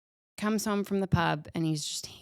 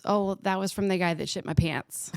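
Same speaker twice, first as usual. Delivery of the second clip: laughing through punchline. Real, not acted. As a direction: deliver the last line as the laugh breaks out. Joke punchline, breaking into laughter.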